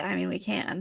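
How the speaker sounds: soft announcer delivery; podcast voice. Real, not acted. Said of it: "podcast voice".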